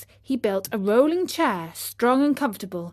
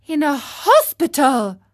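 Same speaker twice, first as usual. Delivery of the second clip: shocked echo, louder and higher on hospital; 4 semitones higher, 6 dB louder than usual. Acted. Pinocchio hears the fairy is ill, shocked. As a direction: gasp the words back in disbelief.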